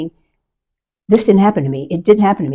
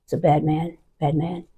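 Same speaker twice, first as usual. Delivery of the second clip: hushed and softer, hiding in the bathroom; hushed warning; 9 dB quieter than usual. Retold or imitated. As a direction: whisper a warning to the housekeeper. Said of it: "I said".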